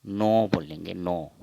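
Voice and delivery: नौ as a pure o, "no"; Assamese pronunciation. Shown as a demonstration. Teacher showing the Assamese nine, rounded "no". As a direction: keep नौ free of any au glide. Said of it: "असमिया में हम".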